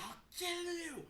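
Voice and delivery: high, drawn-out threatening shout; battle scream. Retold or imitated. Night Warrior charging the Horde, a high shriek.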